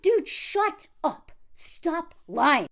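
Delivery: exasperated dismissal. Retold or imitated. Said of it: "everybody is just like".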